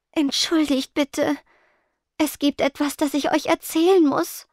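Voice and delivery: shy apology at the door; gentle voice. A narrator's reading. Ghost Spectra at the door, apologising gently. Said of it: "eine sanfte Stimme".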